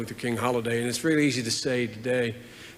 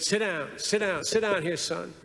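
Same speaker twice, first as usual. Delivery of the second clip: lightly imitated old Southern senator, higher pitched; a hint of an old Southern senator inviting a young man to sit; 5 semitones higher than usual. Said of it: "he always talked like this".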